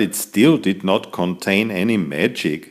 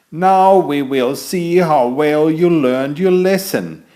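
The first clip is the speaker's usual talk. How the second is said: higher, louder, grand wizard voice; master wizard; 6 semitones higher, 5 dB louder than usual. Acted. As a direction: welcome the class like a proud old wizard. Wizard announces the test.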